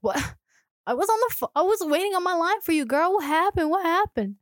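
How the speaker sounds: high-pitched, hurried mock pleading; agitated caller. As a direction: play someone desperate to know what happened. Acted eager caller next day.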